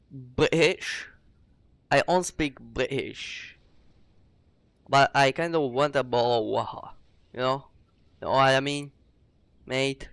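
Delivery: badly faked British accent; amateur mock-British accent; attempted British accent. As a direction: have a clumsy go at sounding British. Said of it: "I don't know how to do the British".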